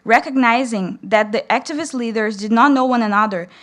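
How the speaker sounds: steady, formal reading of a book passage; reading aloud. Acted. Student reading a history passage aloud to the audience, formal reading voice. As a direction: read the passage clearly to the audience.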